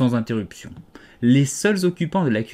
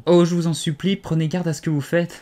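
higher, anxious plea; alarmed cry; 6 semitones higher, 3 dB louder than usual. A narrator's reading. Alice begging as pans fly at the baby, alarmed. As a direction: beg them urgently to take care. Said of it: "s'écria Alice en bondissant d'inquiétude et de terreur".

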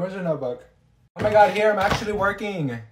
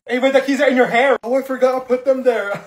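excited; 4 semitones higher, 7 dB louder than usual. Acted. Keys found in hair.

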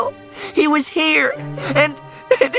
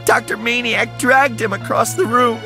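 put-on high, distraught child voice; upset girl pleading to be believed; tearful girl; 11 semitones higher than usual. A narrator's reading. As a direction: pour it out high-pitched, on the edge of sobs. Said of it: "Brooke started to sob".

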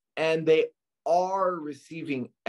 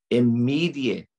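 "Immediate." punched louder with a falling close; "Immediate." said louder, landing with a fall; stress on immediate; 5 dB louder than usual. Shown as a demonstration. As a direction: hit "Immediate." hard and firm. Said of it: "That word just changed everything".

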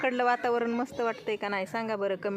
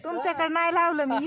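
raised voice; 7 semitones higher, 4 dB louder than usual. Real, not acted. Explaining camera to villager.

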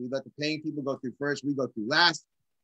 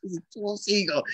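imitating a friend's self-introduction; Paul Siegel; 3 semitones higher than usual. Friend phoning with big news, mock-formal. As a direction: mimic the caller announcing his own name. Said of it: "this is how he said it".

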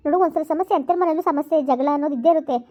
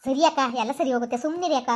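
gently calm her down, hushed; soft consoling; 6 dB quieter than usual. Acted. Neighbour consoles the upset sister. (ಮೃದುವಾಗಿ ಸಮಾಧಾನಪಡಿಸುವ ಧ್ವನಿ)

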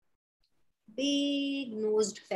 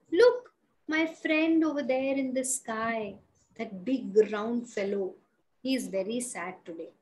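sad; 3 semitones lower than usual. Acted. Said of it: "feeling very sad and therefore I am crying".

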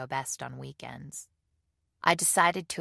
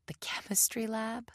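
high, incredulous echo; aghast; 7 semitones higher than usual. A narrator's reading. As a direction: question it in appalled disbelief. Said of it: "I was aghast".

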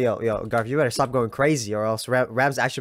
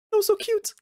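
gushing. Real, not acted. Gushing over cute scene.

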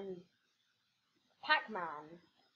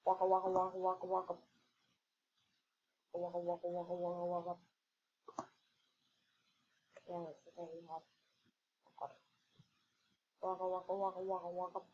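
Pac-Man sound; 4 semitones lower, 7 dB quieter, faster than usual. Pretend. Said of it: "I'm gonna be like Pac-Man".

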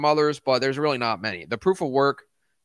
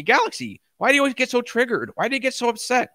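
imitating therapist; 8 semitones higher than usual. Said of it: "my therapist tells me".

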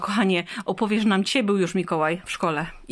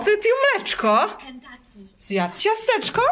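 much higher, playful amazement; delighted; 6 semitones higher than usual. Real, not acted. Mother telling her daughter Santa ate the cookie, delighted.

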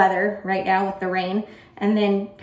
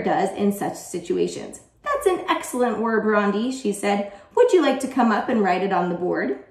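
put-on animated storytelling for children; story read-aloud; 3 dB louder than usual. A narrator's reading. Teacher reading a favorite chapter to students, animated. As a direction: read it out clearly and expressively.

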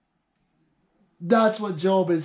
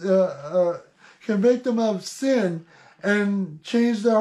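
pleading Job; 2 semitones higher than usual. Acted. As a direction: beg God for help, half-hearted anguish. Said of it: "He was like".

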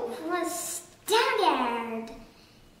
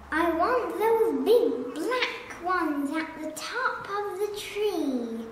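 mild shout; 3 semitones higher than usual. Acted. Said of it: "the man was shouting".

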